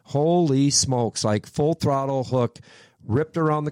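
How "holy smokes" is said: slow, drawn-out retold amazement; amazed exclamation. Driver recalls car hooking hard in turn one, amazed. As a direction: stretch it out in awe.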